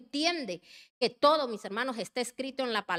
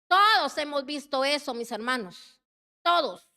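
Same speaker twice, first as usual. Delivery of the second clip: insistent; 3 semitones higher, 6 dB louder than usual. Real, not acted. Preacher insists to the congregation.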